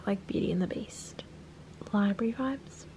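soft admiring whisper; hushed wonder. Real, not acted. Vlogger whispering over the pretty game library, quietly delighted. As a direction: whisper as if not to break the spell.

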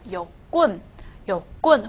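"棍" in "有棍" said with a hard tense k; tensed consonant. Shown as a demonstration. Teacher reading the next example, "棍" in "有棍" tensed. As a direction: stress a tight, unaspirated "棍" in "有棍". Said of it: "这个군也是一样".

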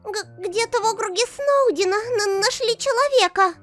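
very high, stammering announcement; high-pitched, flustered stammer; frantic report. Acted. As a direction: stumble over the urgent news in a high voice. Stammers out urgent news of human.

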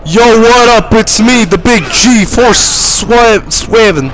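high, loud boastful shouting; shouted swaggering greeting; loud cocky intro. Acted. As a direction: hype yourself up like a wrestler.

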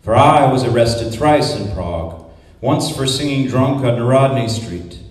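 steady, declaiming poetry reading; measured spoken-word delivery; poem recitation. Acted. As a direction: read it out like a performance poet.

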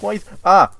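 frightened question that breaks into a loud yell; real yell. Real, not acted. Gamer spots a fire in his tunnel, a real startled yell. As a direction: caught off guard by fire, yelps. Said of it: "Can't believe I yelled".

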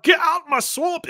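high, hammed-up ogre yell; Shrek. Player showing what French Shrek wouldn't say, high mock ogre cry. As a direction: send it way up like a mock angry ogre. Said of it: "wouldn't even be like".

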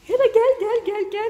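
high, loud call to the dog. Real, not acted. Calling the dog to hide it.

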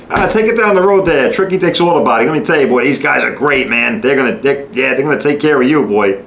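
lightly voiced slick insurance agent; a hint of a salesman steering you; smarmy adjuster. Mocking the insurance company steering you to a bad shop, lightly slick. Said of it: "they're gonna tell you".

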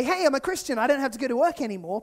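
loud, cheeky declaration; hammed-up carefree boast; mock proclamation. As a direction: announce it like a triumphant excuse. Mock Christian excuse, loud.

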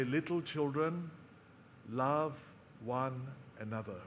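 lightly voiced aging apostle, gathering his last strength; frail old man. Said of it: "in his frailty, he would muscle whatever strength he had".

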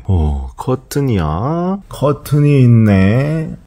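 put-on slow sing-song talk to a baby; lightly sweetened baby voice. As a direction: coo it slowly for the baby. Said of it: "라고 말하는 제 모습이 이상합니다".

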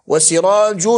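وسراج ending in a sounded "-un"; damma tanween. Shown as a demonstration. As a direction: say وسراج as "wa-sirajun", final n audible. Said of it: "هنا نون ساكنة قبلها ضم".

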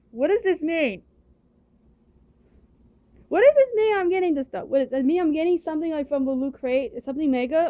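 high squealing disbelief; shrieking jackpot winner. Real, not acted. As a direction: shriek like you just won big. Unboxing surprise loot, squealing.

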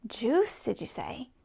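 eager storybook query; exclaimed question. A narrator's reading. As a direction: pipe up on the first word, questioning. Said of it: "cried Larch".

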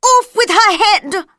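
high, loud executions order; queen keeps ordering executions, shouting. A narrator's reading. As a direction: bellow the sentence.

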